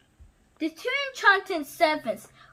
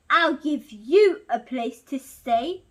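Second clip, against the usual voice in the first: beast's threat; 2 semitones lower, 5 dB louder than usual. Acted. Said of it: "replied the beast".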